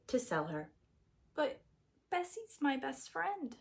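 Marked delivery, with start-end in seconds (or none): 1.3-3.5 sleepy Jack. Acted. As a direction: mumble it half asleep. Jack voiced in story.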